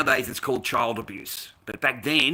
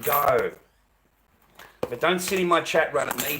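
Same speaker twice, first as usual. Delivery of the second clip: loud, irate dismissal with raised pitch; really angry, punching the swear words; angry outburst; 3 semitones higher, 5 dB louder than usual. Real, not acted. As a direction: tell a heckler to get lost, loud and fed up. Angry retort to chat critic.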